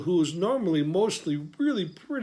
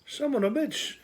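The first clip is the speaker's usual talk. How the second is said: exasperated curse; 9 semitones higher than usual. Real, not acted. Discovers capicola eaten by son.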